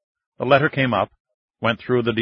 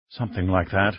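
breathy voice; 2 semitones lower, 3 dB quieter than usual. Acted. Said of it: "agreed in a breathy voice".

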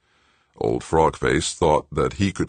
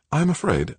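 composed, higher-pitched woman's voice; calm; 11 semitones higher than usual. A narrator's reading. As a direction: say it smoothly, unruffled, pitched up. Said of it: "Joanna said calmly".

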